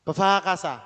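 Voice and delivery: Befakasa with a very short be; correct pronunciation. Shown as a demonstration. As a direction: clip the first syllable of "Befakasa", open out fa. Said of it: "Jadi kayak nggak bunyi". (Befakasa dengan "be" sangat pendek)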